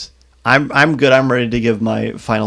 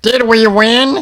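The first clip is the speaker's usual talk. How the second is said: bad battle droid impression, higher and louder; 11 semitones higher, 5 dB louder than usual. Retelling a funny moment, imitating a battle droid: worst battle droid impression. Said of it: "That was the worst battle droid, uh, impression ever".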